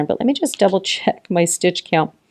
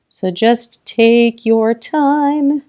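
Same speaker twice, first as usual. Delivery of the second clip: reassuring; 4 semitones higher, much slower than usual. Real, not acted. Reassuring the viewer.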